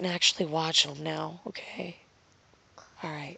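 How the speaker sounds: whispered, almost silent; whispering. Real, not acted. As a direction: hush your voice to a whisper. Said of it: "we need to be quiet".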